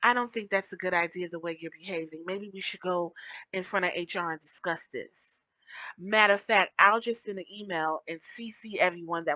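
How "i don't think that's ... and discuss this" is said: composed office voice. Shown as a demonstration. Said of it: "Hence the term".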